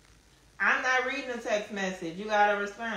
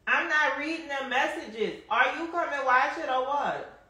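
higher-pitched call to someone; raised, insistent call; 5 semitones higher than usual. Real, not acted. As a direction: call over for an answer, voice pitched up. Calls to someone about joining.

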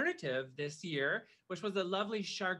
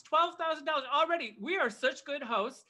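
excited; 6 semitones higher than usual. Real, not acted. Excited about auction total.

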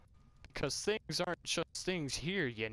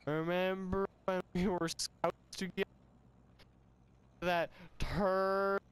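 higher, hammed-up drunk recollection; drunken reminiscing; 4 semitones higher than usual. Drunk recalling scouts with old friend, higher drunken voice. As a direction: drag out the memory like a drunk.

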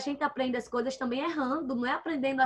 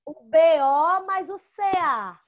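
slow spelling out; 3 semitones higher, 5 dB louder than usual. Shown as a demonstration. Spelling syllables out for children.

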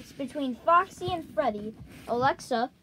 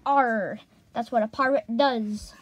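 pirate voice; 3 semitones lower than usual. Acted. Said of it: "that's not what a pirate does".

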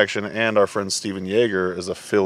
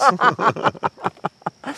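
squeaky duck noise; 12 semitones higher than usual. Pretend. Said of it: "You've been practicing".

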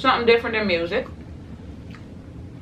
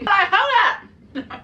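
incredulous; 12 semitones higher, much slower than usual. Real, not acted. Reacting to a commenter.

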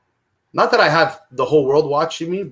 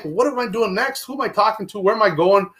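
higher, eager questions tumbling out; excited racing thoughts; 6 semitones higher than usual. Retold or imitated. Jumping out of bed, eager to start the day. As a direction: sound buzzing with energy at dawn. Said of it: "I'm like".

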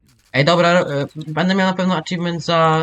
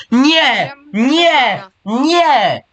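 shouting no; 7 semitones higher, much slower than usual. Real, not acted. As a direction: cry out no three times. Rare monster appears, cries out.

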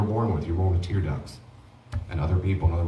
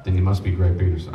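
teasing; 4 dB louder than usual. Real, not acted. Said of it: "I'm kidding".

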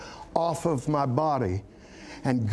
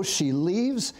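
ordinary delivery

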